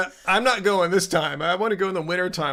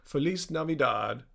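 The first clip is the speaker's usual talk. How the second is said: Spanish; 3 semitones lower than usual. Shown as a demonstration. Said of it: "I spoke a lot of Spanish".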